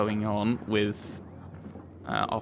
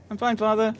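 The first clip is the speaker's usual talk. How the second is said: put-on young woman's voice; 11 semitones higher than usual. Player voicing young woman NPC.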